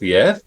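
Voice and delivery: imitated one-word lisped answer, rising; lightly lisped phone pickup; Dick Smith lisp. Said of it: "He had a little bit of a lisp".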